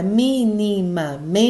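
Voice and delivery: "minimamente" in drawn-out beats, MI stressed first; syllable by syllable. Shown as a demonstration. Teacher shows sobresdrújula, syllable-by-syllable "minimamente" with strong first MI. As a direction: spell out "minimamente" slowly by syllables, leaning on the first mi. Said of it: "o mi é a tônica".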